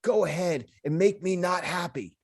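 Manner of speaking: deadpan mangled version of a famous threat; mock tough-guy quote. Comic misquotes famous movie threat, mock tough guy. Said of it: "So I would be like".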